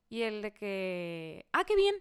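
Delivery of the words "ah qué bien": high, loud fake cheer; mock clueless date; mock surprised guy. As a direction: play dumb, delighted.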